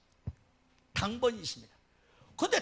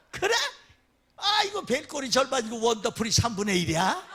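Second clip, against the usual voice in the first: mock indignant retort; 6 dB louder than usual. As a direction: scoff at the scolding, laughing. 성도가 발끈하는 흉내. (발끈하는 성도 흉내)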